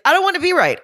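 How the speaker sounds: high, whiny brother voice, pitched well up; mock whiny brother. Brother whining at his mom, pitched high and mock-whiny. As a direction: whine it like the hurt brother. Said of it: "And he's like".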